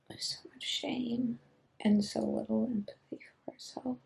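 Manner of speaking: drifting, hushed and spacey; spacey and subdued. Real, not acted. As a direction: speak as if half there, barely holding on. Spacey, dissociated, subdued state.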